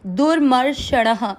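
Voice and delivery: दुर्मर्षणः slow, every syllable full; correct pronunciation. Shown as a demonstration. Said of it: "जैसे कि कल भी एक शब्द था".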